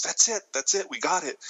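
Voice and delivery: high, eager cheer; excited. Retold or imitated. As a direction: celebrate the take. Excited director celebrating take.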